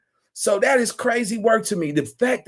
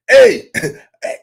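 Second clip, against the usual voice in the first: laughing disbelief; 6 dB louder than usual. Real, not acted.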